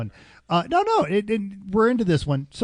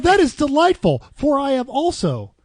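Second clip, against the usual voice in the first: mock formal diction. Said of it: "that's how they enunciated it".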